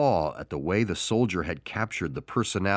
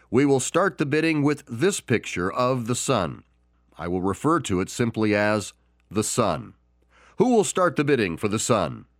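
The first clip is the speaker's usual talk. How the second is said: higher, projected auctioneer call; lightly raised auctioneer voice; auctioneer calling bids; 3 semitones higher than usual. Acted. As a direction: open the bidding to the room. Auctioneer opens the bidding.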